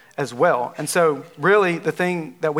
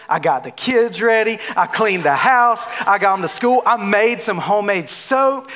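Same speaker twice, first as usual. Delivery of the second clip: Miss Everything; 4 semitones higher than usual. Retold or imitated. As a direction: rattle off achievements, slowing to gloat. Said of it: "she's like".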